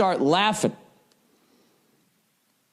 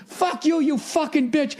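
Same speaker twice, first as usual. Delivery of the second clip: cursing, pitched way up; mock road rage yell; 10 semitones higher than usual. Crash driver yelling at bystanders, mock furious.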